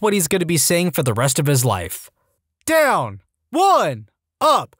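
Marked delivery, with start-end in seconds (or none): 2.7-3.2 higher, falling drill call; instructor's command. Acted. Instructor to push-up line, drill call. 3.5-4.1 high-pitched count call; recruits counting off. Acted. Recruits counting push-ups, high call. 4.4-4.7 short, high drill call; instructor's command. Acted. Instructor to push-up line, high drill call.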